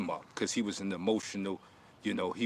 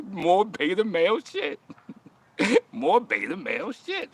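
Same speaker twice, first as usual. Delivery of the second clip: higher, laughing repeated jab; laughing taunt; 10 semitones higher, 4 dB louder than usual. Real, not acted. Mocking a viewer live, laughing taunt. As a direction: taunt him through laughter.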